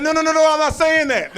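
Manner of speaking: high-pitched, loud, rushed string of denials; frantic mock protest. Date to comedian over the powder, high frantic mock protest. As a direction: imitate her backtracking in a high voice. Retold date's frantic backtracking.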